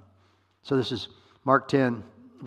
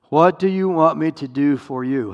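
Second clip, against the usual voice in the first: loud, raised, deliberate question; emphatic question; 4 semitones higher, 9 dB louder than usual. Acted. Jesus asking the blind beggar, emphatic and loud. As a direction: put the question out loud and clear.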